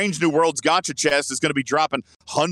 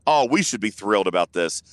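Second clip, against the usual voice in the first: dry mock enthusiasm; sarcastic; 6 semitones lower than usual. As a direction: pretend to be pleased, dripping sarcasm. Sarcastic praise of the buff.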